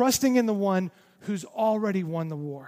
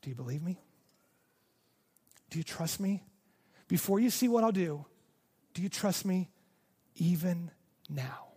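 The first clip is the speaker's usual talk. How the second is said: soft whisper; 4 dB quieter than usual. Retold or imitated. God whispering to the listener in hard times, softly. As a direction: lean in and breathe the question. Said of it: "God whispers to you".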